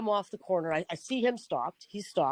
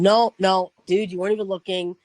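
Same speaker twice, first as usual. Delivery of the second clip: louder, emphatic retold protest; retold anger; 6 dB louder than usual. Cyclist disputing blame with the driver, retold angry protest. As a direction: re-enact an angry objection, hitting the first no hard. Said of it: "I got angry".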